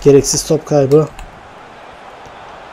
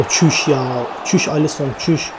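softer hushed disbelief; stifled exclamation; 2 semitones lower, 9 dB quieter than usual. Real, not acted. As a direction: swallow the shout at night. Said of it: "Bağıramıyorum gece gece".

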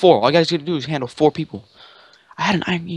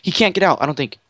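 excited yelling; 8 semitones higher, 3 dB louder than usual. Real, not acted. Urgent callouts during the chase.

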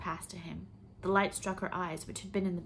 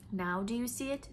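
demanding; 4 semitones higher than usual. Acted. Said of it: "the educated voice demanded".

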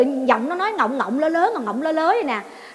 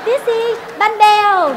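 slow, louder, deliberate answer; annoyed retort; 5 semitones higher, 5 dB louder, slower than usual. Retold or imitated. Narrator retorting to Tèo, slow irritated reply. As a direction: spell it out to him, fed up. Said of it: "Tôi tức quá tôi trả lời".

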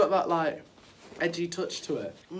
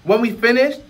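loud, easygoing genie guru; laid-back street-wise genie; cool guru voice; 5 semitones higher, 4 dB louder than usual. Acted. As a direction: play it smooth and relaxed, a genie with swagger. Acted guru lines.

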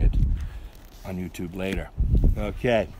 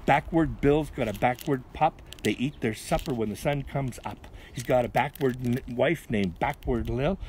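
measured, sing-song verse reading; poem recital; 4 semitones higher than usual. A narrator's reading. Reader telling kids of Backward Bill, rhythmic recital.

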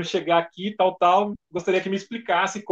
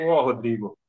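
imitated Wendel; 5 semitones lower, 3 dB quieter than usual. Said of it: "E aí ele conversando comigo".

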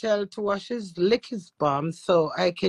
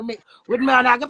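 rising yell; 6 dB louder, faster than usual. Real, not acted. Building into a scream.

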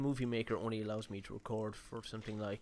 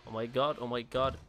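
loud; 7 dB louder than usual. Real, not acted. Startled by enemy in horror game.

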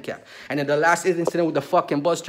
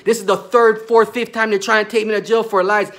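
angry yell; 4 semitones higher, 4 dB louder than usual. Real, not acted. Ranting about false charges.

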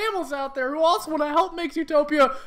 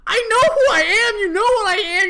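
tearful shout; 3 semitones higher, 5 dB louder than usual. Acted. Acted quarrel, angry tearful outburst.

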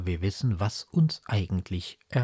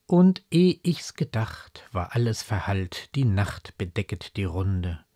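poem recitation. Acted. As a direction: recite the verse, stepping down line by line. Recites a quoted verse.

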